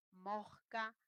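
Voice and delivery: mosca said moxka with the s as h; aspirated s. Shown as a demonstration. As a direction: breathe the s in mosca. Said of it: "quiero que me escuches en fonético".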